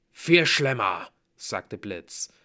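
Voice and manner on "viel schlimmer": slow, loud, weighty warning; ominous dwarf. A narrator's reading. Blitz warns the hero of worse, slowly and ominously. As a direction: draw it out with dread.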